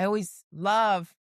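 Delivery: mock-enthusiastic, drawn-out "love"; a touch of ironic gushing; sarcastic. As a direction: lean on the word with mild sarcasm. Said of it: "I say that sarcastically".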